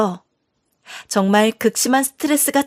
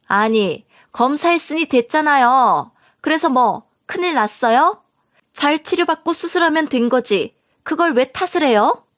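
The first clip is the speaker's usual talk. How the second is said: higher, brazen sister-in-law talking back; defensive sister-in-law; 4 semitones higher than usual. Acted. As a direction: sneer it back, a touch higher and defiant.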